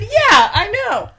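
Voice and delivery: slow, laughing retold reply. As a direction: laugh through the quoted answer. Retelling a funny text.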